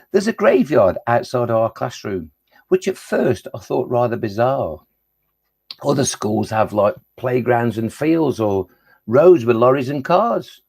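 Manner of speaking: measured, rhythmic verse reading; poem recital. Acted. Poet performing a graveyard poem for pupils, rhythmic recital. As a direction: recite it as rhyming verse with clear beats.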